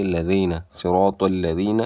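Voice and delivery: لذین with a gentle "dh", not z; tongue between teeth for the ذ in الذین; soft dhal. Shown as a demonstration. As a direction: soften الذین to "ladheena". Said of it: "یہ نرمی سے پڑھی جائے گی".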